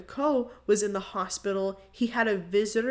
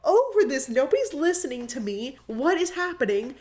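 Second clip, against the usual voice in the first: fed-up outburst; 5 semitones higher than usual. Retold or imitated. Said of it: "Matthew was like".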